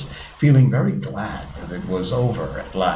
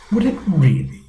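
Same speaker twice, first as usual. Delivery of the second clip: higher-pitched surprised question; great surprise; 9 semitones higher, 4 dB louder than usual. A narrator's reading. Alice questions the Mock Turtle about porpoises, surprised. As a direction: react as if it's news to you. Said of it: "in a tone of great surprise".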